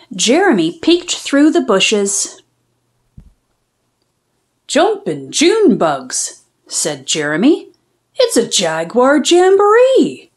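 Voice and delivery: lively storybook reading; bouncy read-aloud for young listeners; reading to children. A narrator's reading. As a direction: read it like a picture book for kids. Reads picture book aloud.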